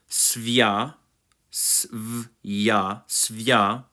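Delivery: "svia" as svyah, then sounded out s-v-ya; syllable drill. Shown as a demonstration. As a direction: break "svia" into its sounds and rejoin it. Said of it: "It's a mouthful".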